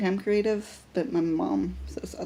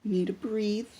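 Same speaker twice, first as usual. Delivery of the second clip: reassuring. Retold or imitated. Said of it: "and I go".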